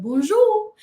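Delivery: put-on bonjour in a drawn-out Southern accent; hammed-up Southern greeting, swooping up high. Reading out a tourist greeting Parisians, hammed-up Southern accent. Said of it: "in my most southern accent".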